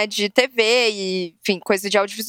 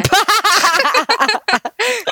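loud burst of laughter; 9 semitones higher, 4 dB louder than usual. Real, not acted. Laughs on catching the hint.

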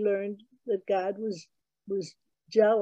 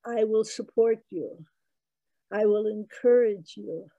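a gentle God proclaiming blessings; booming kind God. Retold or imitated. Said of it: "a booming voice said".

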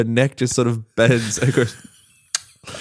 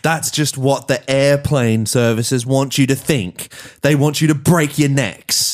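booming voice; 5 semitones higher than usual. Retold or imitated. Joins Justin's booming speech.

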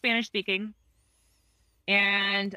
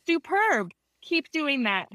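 enthusiastic praise; 5 semitones higher, slower than usual. Retold or imitated. Therapist praising patient's report.

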